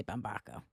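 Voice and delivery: Bumbaco with AH, bum-BAH-ko; Boston-style pronunciation. Shown as a demonstration. Podcaster shows how Boston says the surname, bum-BAH-ko. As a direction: say Bumbaco softly with a broad A. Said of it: "I mean, even Boston".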